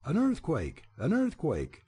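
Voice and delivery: frightened scream. A narrator's reading. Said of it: "screamed in their fright".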